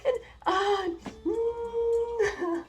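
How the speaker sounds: high, slow, laughing through tears; laugh-crying. Real, not acted. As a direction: squeal half-laughing. Laughing-crying about the book.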